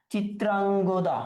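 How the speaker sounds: চিত্রাঙ্গদা said slowly, syllable by syllable, for notes; slow dictation. Shown as a demonstration. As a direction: spell out চিত্রাঙ্গদা slowly so students can write it.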